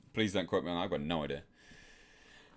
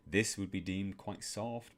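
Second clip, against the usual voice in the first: softer, light, airy voice; airy soft voice demo; 2 semitones lower, 6 dB quieter than usual. Shown as a demonstration. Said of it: "I can lighten my voice a little bit more".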